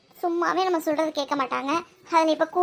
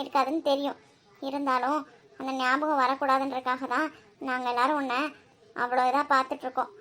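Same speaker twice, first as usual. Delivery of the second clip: tender consoling; 2 semitones lower than usual. Acted. Aunt consoling crying niece. (அழும் பெண்ணை அத்தை மென்மையாகத் தேற்றுகிறாள்)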